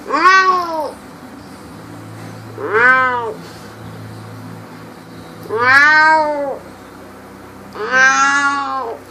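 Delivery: high, drawn-out mock meows; cat meows. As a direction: meow like a cat at the puppy. Meowing at the puppy.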